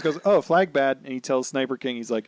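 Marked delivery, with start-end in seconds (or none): 0.2-1.0 laughing dumb caveman voice; mock a simple man's logic; hammed-up dimwit grunt through a laugh; simple-minded Luffy. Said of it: "Luffy, simple man".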